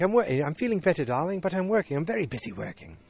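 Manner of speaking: high put-on voice for an imitated husband; mock-husbandly, high-pitched excuses; husband's voice. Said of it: "and he's like".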